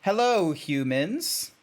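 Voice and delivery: stilted, deliberate hello with a questioning lilt; straight-faced. Shown as a demonstration. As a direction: greet them stiffly without laughing. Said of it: "do this as straight-faced as possible".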